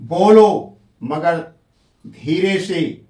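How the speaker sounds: loud, slow बोलो, a brief break, then मगर धीरे से; मगर से पहले अल्प विराम. Shown as a demonstration. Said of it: "मगर के पहले मैंने अल्प विराम दे दिया". (बोलो पर ज़ोर, मगर से पहले हल्का ठहराव)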